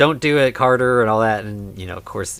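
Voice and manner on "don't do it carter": ordinary delivery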